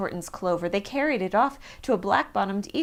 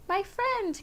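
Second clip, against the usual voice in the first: tag; 11 semitones higher than usual. A narrator's reading. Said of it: "came the voice".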